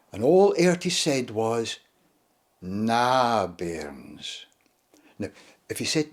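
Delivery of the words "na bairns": put-on Shetland accent. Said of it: "in his Shetland accent".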